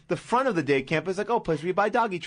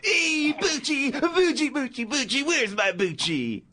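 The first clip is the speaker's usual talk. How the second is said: much higher calling, slowing at the end; John Travolta impression; 8 semitones higher, slower than usual. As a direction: call for the lost dog high. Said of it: "really good Travolta impression".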